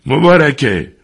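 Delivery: high, loud cry for help; old man's final shout for help; desperate shout. Acted. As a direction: call the maid with your last strength. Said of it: "با آخرین رمقی که داشت فریاد زد".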